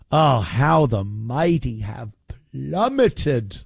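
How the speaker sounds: slow, theatrical sigh of doom; hammed-up grand lament; mock dramatic lament. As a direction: lament it like a tragedy.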